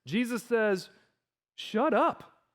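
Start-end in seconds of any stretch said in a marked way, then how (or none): 1.5-2.4 high, firm rebuke; aggressive command. Acted. Jesus rebuking the storm, aggressive command. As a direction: order silence, pitched up and firm. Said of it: "It's so aggressive".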